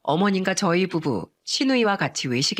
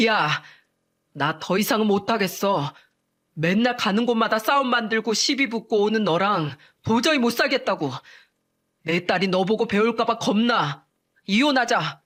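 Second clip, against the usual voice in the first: firm, raised voice demanding divorce; angry shout. Acted. Husband to wife, demanding divorce, raised angry voice. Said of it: "동서를 보고 소리쳤어요".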